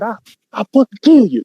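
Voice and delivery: put-on high, fast drunken threat; drunk uncle threat. Uncle drunk at auntie, high fast threat. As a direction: mimic a drunk uncle yelling. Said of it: "he said".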